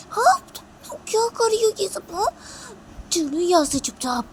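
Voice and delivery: very high, loud telling-off; angry scolding. Acted. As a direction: scold sharply and order her out. Piu scolding Rui, ordering her out.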